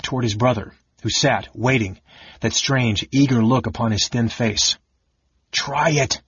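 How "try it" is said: higher, firm command; ordered. A narrator's reading. Raistlin commanding Caramon to strike, firm order. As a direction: order it, no hesitation. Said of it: "Raistlin ordered again".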